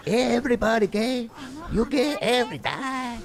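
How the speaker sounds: hammed-up impression of his bigoted father; imitating dad. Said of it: "My dad would say simple things like".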